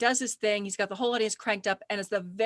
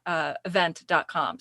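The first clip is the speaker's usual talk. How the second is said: normal talking voice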